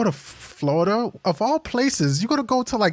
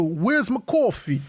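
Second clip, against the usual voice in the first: New Yorker; 4 semitones higher than usual. Shown as a demonstration. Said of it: "You gotta say it like a New Yorker".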